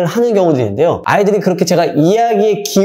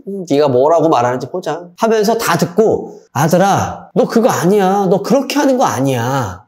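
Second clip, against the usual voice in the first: 1 sulky mom. Retold or imitated. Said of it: "엄마가 되게 옆에서 표정이 되게 뾰루퉁해".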